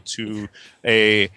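put-on American accent, reading a question; lightly hammed American caller voice. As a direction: read it out in a mock American accent. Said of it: "do the British American voice".

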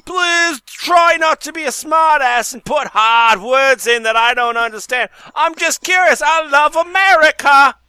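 a wobbly fake London accent asking about time; West London accent. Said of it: "What accent was that?".

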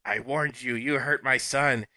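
menacing voice. Acted. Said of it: "the text came up again".

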